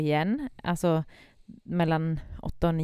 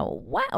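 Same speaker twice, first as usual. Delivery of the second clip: put-on a milder high baby squeal; imitating baby scream; 13 semitones higher, 3 dB quieter than usual. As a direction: toss off the baby's shriek once more. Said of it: "tjugofem såna skrik på rad".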